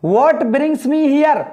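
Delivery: each word drawn out slowly; careful word-by-word classroom reading; slow model reading. Shown as a demonstration. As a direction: say it slowly for students to repeat. Teacher models English question.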